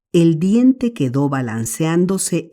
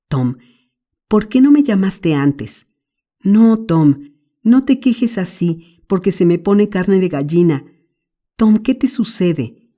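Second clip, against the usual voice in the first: anxious little brother; 5 semitones higher than usual. Acted. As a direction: beg him to stop crying, scared. Sid voiced in the story. (Sid asustado, suplicando con voz más aguda)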